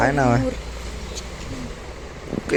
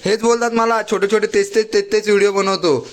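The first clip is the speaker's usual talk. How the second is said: excited; 7 semitones higher than usual. Real, not acted. Excited, high-pitched vlog chatter.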